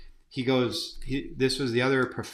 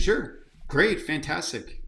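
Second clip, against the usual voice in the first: eager agreement; 4 semitones higher, slower than usual. Retold or imitated. Eager reply to the mentor.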